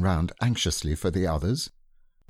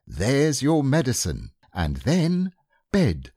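lightly higher brisk voice; brisk mother; 6 semitones higher, 3 dB louder, slower than usual. Acted. Kanga voiced in story.

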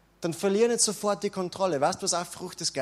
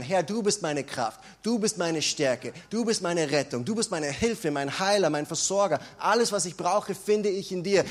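spoken confession of faith. Acted. Confession prayer to God.

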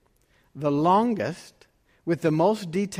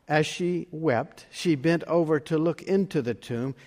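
scripture reading; 2 semitones lower than usual. Acted. Pastor reads the Easter Gospel aloud, in a measured reading voice. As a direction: read the Gospel to the congregation.

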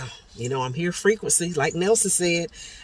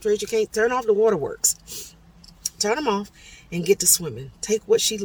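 louder, higher pep talk to oneself; brisk self-scolding; 6 semitones higher, 4 dB louder than usual. Retold or imitated. Swimmer telling herself to stop crying, firmly. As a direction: order yourself to pull it together.

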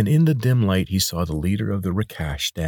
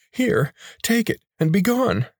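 high, oily voice of a chubby healer; pudgy man; 3 dB louder than usual. A narrator's reading. Chubby healer coaxing the injured boy, high and oily.

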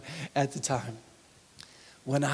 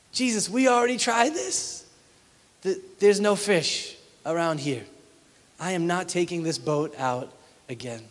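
mild frustration; 2 semitones higher than usual. Acted. Frustrated Simon answers Jesus.

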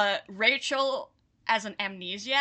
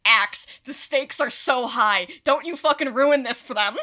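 stressed pleading; 7 dB louder than usual. Retold or imitated. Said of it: "'cause I'm like".

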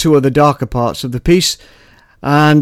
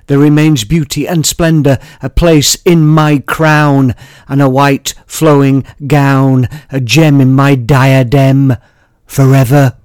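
poem recitation; 4 dB louder than usual. Acted. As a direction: savour each image, unhurried.

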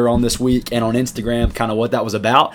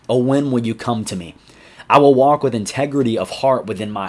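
scripture reading. Acted. Youth pastor reads Psalm 101 to students, solemn and measured. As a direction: read each line with weight and care.

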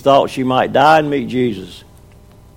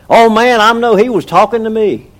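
excited churchgoer; 6 semitones higher, 3 dB louder than usual. Retold or imitated. Churchgoer excited after sermon.

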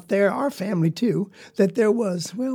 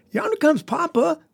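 high excited call to Papa; 8 semitones higher than usual. A narrator's reading. Little brother spotting Papa, calling out high. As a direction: call out Yonder comes Papa, high-pitched. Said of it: "called out and said".

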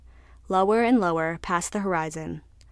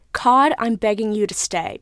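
pleading; 2 semitones higher, 5 dB louder than usual. Acted. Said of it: "pleaded the tuna".

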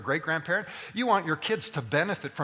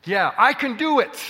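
high, loud mock child insisting; stubborn little boy; 6 semitones higher, 5 dB louder, slower than usual. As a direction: play the toddler who won't accept help. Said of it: "and he would go".

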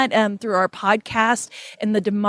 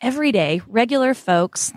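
light Oklahoma accent slipping in; a hint of Oklahoma accent on regular folks. Real, not acted. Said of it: "There's my Oklahoma accent".

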